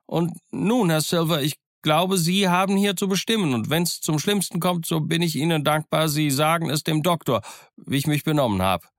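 high, urgent outburst; high-pitched impassioned appeal; agitated calling out. Acted. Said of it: "brach ich wieder los und rief".

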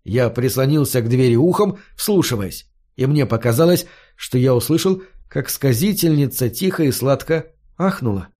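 ordinary delivery

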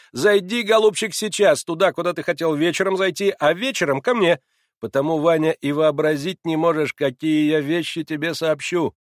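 оживлённый высокий голос Маслобоева; зазывай приятеля громко и напористо; Маслобоев. A narrator's reading. (настойчивый приятель зовёт Ваню, громко)

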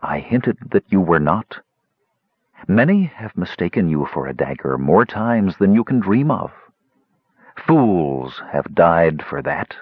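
icy, slowing to the end; cold and menacing, unhurried. Acted. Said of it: "colder than goblin corpse".

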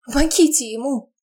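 high cracking plea; breaking voice. Acted. Eva begging guards to help grandfather, voice breaking. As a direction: let the voice break as you beg. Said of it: "срывающимся голосом".

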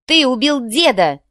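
high, loud, slow cry of blame; shouted accusation. A narrator's reading. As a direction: hurl the accusation at him. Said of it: "выкрикнула девушка". (выкрик с обвинением)

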